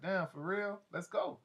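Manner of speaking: can't believe his luck; eager excitement. Acted. Priest jumping at LaShawn's offer, excited.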